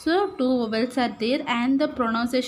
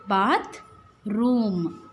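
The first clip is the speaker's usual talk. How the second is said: "bath" and "room" said apart with a pause between; syllable by syllable, bath, room; split into syllables; 3 semitones lower than usual. Shown as a demonstration. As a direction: break the word into bath then room. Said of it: "three syllable words is there".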